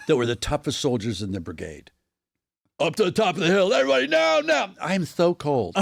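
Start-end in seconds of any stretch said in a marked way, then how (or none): 2.8-4.7 much higher, camp battle cry; effeminate soldier voice. Acted. Soldier rallying troops up the hill, high camp voice. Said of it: "very effeminate soldiers". 4.8-5.8 effeminate soldier voice. Acted. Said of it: "very effeminate soldiers".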